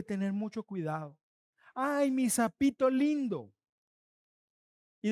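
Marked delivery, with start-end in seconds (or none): 1.7-3.5 slow, drawn-out imitated endearment; mock affection. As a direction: coo a pet name in pretence. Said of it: "lo hacemos con cariñito".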